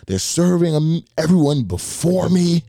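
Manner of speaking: high, whiny complaining lady; upset customer. Retold or imitated. Customer complaining at the drive-thru, high and whiny. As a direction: whine it up high like an offended customer. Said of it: "She's like".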